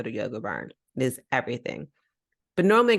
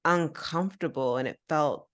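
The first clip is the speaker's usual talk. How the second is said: ordinary talk, nothing marked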